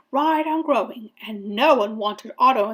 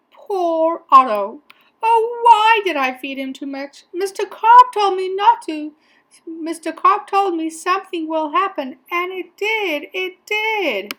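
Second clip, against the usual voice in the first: regretful lament; 8 semitones higher, 5 dB louder than usual. A narrator's reading. Boy lamenting his overfed fish, high rueful wail.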